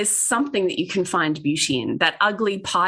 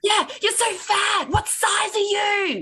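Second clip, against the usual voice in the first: mock rude stranger. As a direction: parody tactless comments on a body.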